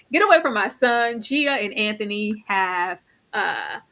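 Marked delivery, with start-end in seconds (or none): 0.1-1.2 laughing repeat. Retold or imitated. Laughing as she repeats the mother's line. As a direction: get away from my son through a laugh. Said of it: "repeat with laugh".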